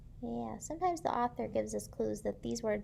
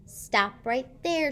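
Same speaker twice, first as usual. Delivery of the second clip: bossy stop; 2 semitones higher, 6 dB louder, much slower than usual. Acted. George blocks kids from house.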